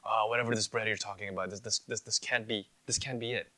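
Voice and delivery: fast, offhand mock brush-off; a mild sarcastic shrug; dismissive. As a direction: wave it away, quickly. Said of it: "They're giving up".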